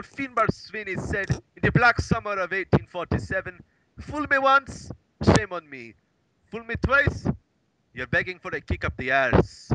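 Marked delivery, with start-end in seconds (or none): 4.0-9.7 Irish storyteller. Retold or imitated. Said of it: "As my great, great, great granduncle ... said".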